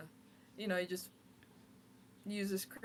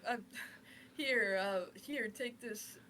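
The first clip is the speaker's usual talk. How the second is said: panicked apology; 3 semitones higher, 4 dB louder than usual. Acted. Flustered apology continues.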